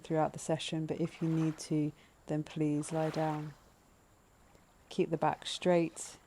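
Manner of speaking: calm, measured breathing-meditation voice, leaving space between phrases; guided meditation. Acted. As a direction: gently lead listeners into noticing the breath.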